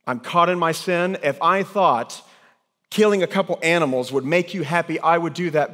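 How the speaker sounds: high, loud, pleading cry of a caught sinner; impassioned confession. Acted. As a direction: pour it out loudly as David. Preacher voices David's confession.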